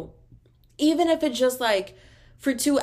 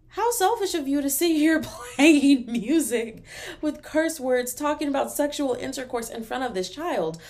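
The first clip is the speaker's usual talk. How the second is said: mock outrage; 6 semitones higher than usual. Mocking outraged parent.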